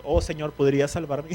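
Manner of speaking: calm, polite little request; polite mock plea. Shown as a demonstration. Preacher mocks how it is read, a calm polite request. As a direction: read it far too politely. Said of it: "leemos eso y creemos que es todo".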